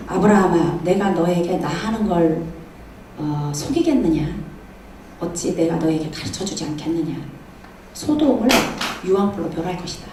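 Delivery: acted low divine pronouncement; God speaking. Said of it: "하나님이 곁에 계시니까 아브라함이 질문을".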